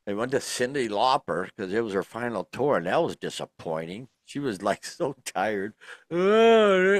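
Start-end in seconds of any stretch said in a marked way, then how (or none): 6.1-6.9 put-on New York accent. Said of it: "in her New York accent".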